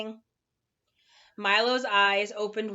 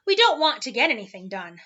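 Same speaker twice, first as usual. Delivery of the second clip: louder, irritated retort; angry snap; 6 dB louder than usual. Acted. Lethargarian snapping back at Milo, louder and angry. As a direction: bite the words out, annoyed. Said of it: "snapped another angrily".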